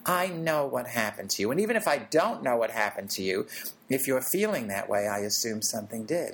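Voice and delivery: put-on calm a frightened child gently; tender reassurance. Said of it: "I say to my inner child".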